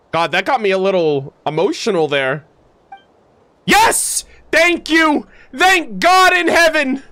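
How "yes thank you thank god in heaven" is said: ecstatic relief. Real, not acted. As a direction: celebrate like a prayer answered. Celebrating the plot twist.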